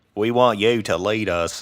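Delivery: bad, phoned-in, put-on Australian accent. Joking about how Australians pick a leader; fake bad Australian accent. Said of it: "Was that another fake bad accent?".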